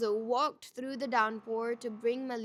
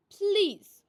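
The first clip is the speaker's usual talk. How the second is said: loud, high desperate plea; pleading; 9 semitones higher, 10 dB louder than usual. A narrator's reading. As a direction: beg him outright. Buki begs Malice to leave.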